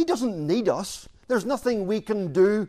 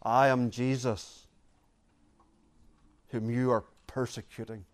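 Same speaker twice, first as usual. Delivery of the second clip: grave divine reply; 6 semitones lower, 6 dB quieter than usual. Acted. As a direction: quietly voice Jesus, letting each phrase sink. Acting Jesus answering Saul.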